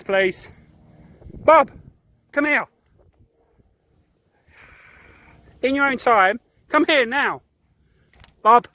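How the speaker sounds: loud, high, strict commands to the dog; sarcastic stern shouting at the dog; stern yelling. Real, not acted. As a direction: yell so he knows you mean it. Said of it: "have to yell at him just so he understands if I mean it".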